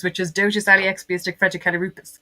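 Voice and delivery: dotus ali expiastic fregicalirupus said as supercalifragilistic backwards; backwards speech. Shown as a demonstration. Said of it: "say it backwards".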